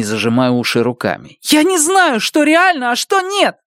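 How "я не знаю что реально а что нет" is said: put-on boy yelling, covering his ears. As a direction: scream it, hands over ears. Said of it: "заорал Бенни".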